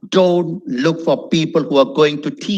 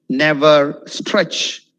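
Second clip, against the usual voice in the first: stretched demo; much slower than usual. Shown as a demonstration. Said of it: "demonstrates drawn-out word".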